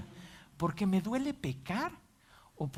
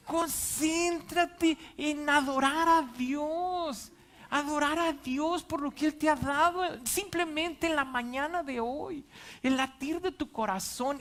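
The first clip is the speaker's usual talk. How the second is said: tender urging; 8 semitones higher than usual. Real, not acted. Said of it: "urging congregation to worship".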